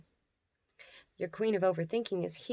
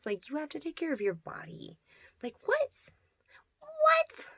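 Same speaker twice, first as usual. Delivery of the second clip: mock outrage; 2 semitones higher than usual.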